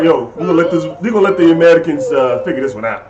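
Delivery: put-on lightly Russian-sounding accent; unintended Russian-like accent. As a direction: slip into a loose Russian accent. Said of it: "Why'd you have an accent?".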